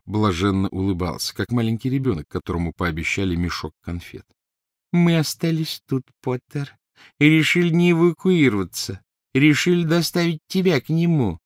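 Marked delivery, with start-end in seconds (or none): 4.9-11.4 gloating Crabbe. Acted.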